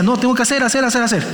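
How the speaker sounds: lightly acted rushed fretting; mock flustered. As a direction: rattle off the repeats as if overwhelmed. Voices Martha fretting over chores.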